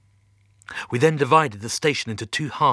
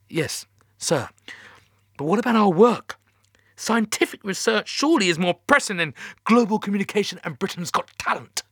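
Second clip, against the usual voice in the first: raised, higher protest; almost shouting; 9 semitones higher, 5 dB louder than usual. A narrator's reading. Captain protests to Mission Control about his research, almost shouting. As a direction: object loudly, just short of a shout. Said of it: "I almost shouted".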